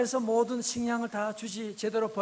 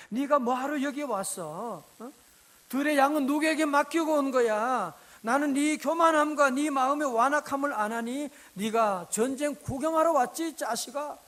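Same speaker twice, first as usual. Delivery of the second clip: put-on angry older brother; 2 semitones higher, 5 dB louder than usual. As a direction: snap at him like a furious big brother. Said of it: "막 화를 내는 거 있죠".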